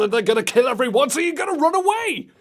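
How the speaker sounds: rising to a high, loud mock-panic; hammed-up frantic climax; building alarm. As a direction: speed up into an urgent warning. Mock warning to little girl builds.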